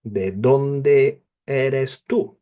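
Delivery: slow, careful ¿De dónde eres tú? with rising tú; teacher models ¿De dónde eres tú? slowly; slow model question. Shown as a demonstration. Teacher to pupil, slow modelled question. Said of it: "The order is not important".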